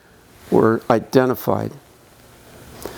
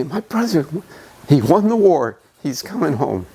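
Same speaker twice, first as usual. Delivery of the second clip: put-on proud child's boast; 3 semitones higher than usual. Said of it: "I don't know why I get so emotional about this".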